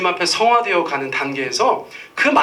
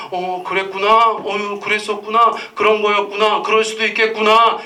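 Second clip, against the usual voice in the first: gentle validating tone; 3 semitones higher than usual. Shown as a demonstration. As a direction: coo it like a patient parent. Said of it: "애들한테 뭐라고 얘기하는 거예요?". (아이를 다독이는 부드러운 말투)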